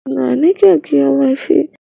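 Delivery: slow, sugary fake innocence; mock innocent. Husband feigning innocence to his wife, mock-innocent and slow. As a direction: play dumb sweetly, dragging it out. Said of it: "ये मासूम शक्ल बिल्कुल मत बनाइए".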